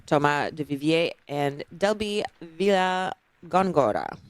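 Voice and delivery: names read with a Spanish accent. Shown as a demonstration. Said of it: "I'm saying the Finnish name in a Spanish accent".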